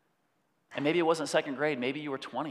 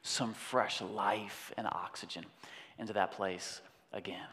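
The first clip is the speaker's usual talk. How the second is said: hushed; 5 semitones lower, 7 dB quieter than usual. Real, not acted. Spirit breathing life, hushed.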